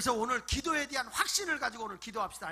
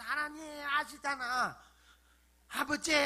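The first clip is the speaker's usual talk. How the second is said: drawn-out, wheedling plea to God; coaxing aegyo; 3 semitones higher, 3 dB louder, slower than usual. Acted. Preacher showing how to coax Father God, playful aegyo. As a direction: wheedle like a child begging father. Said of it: "애교 좀 떨면서".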